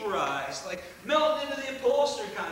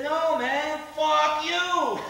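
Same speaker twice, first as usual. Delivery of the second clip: higher and much louder, a hammed-up snarl; loud sneering comeback; 7 semitones higher, 8 dB louder, much slower than usual. Hippie driver yells back at Frankie, high and loud. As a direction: shout it back with a gun in his face. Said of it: "head and says".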